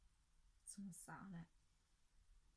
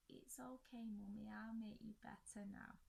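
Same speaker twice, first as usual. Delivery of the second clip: put-on toddler son. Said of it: "he comes into my bedroom".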